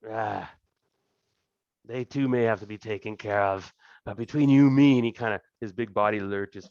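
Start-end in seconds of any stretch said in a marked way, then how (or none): 0.1-5.0 boisterous lord, lightly voiced, slow in places; a hint of a greasy, jovial thug king; fat crime king. Thieves' king welcoming the party to his throne room, lightly voiced and jovial.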